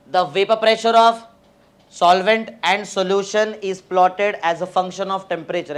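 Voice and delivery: very slow, word-by-word dictation pace. Shown as a demonstration. Teacher dictates a note to students, very slowly. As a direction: read each word out slowly so students can write. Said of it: "तो first point लिखते हैं हम लोग".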